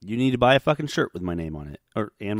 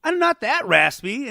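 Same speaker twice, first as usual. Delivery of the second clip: imitating brother; 8 semitones higher, 6 dB louder than usual. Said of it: "And he goes".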